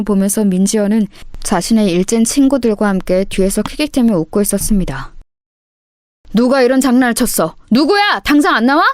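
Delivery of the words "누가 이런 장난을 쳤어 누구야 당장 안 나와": higher-pitched angry demand; furious teacher. Acted. Homeroom teacher hunting the culprit, angry. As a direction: demand the culprit step forward. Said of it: "정말로 크게 화가 나서".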